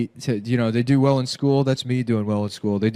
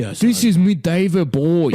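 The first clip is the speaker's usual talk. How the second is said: higher mock star introduction; bad impression, pitched up; a rock star; 4 semitones higher than usual. Shown as a demonstration. Taking another turn in the contest, higher put-on voice. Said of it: "wish I could do a David Bowie impression".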